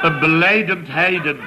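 laughing through it. Real, not acted. A man laughing as he tells the neighbour the punchline. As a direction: chuckle out the punchline. Laughs at his own story.

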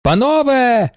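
high loud call; a lawyer's emotional summons; bellowing. A narrator's reading. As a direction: cry out to the whole room. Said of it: "заволав адвокат".

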